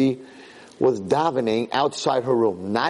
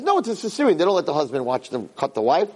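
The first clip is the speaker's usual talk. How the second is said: son-in-law; 4 semitones higher than usual. Retold or imitated. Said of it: "He says".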